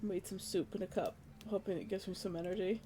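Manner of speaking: drowsy and soft; half asleep, barely lifting the voice; nodding off. Real, not acted. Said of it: "I'm falling asleep".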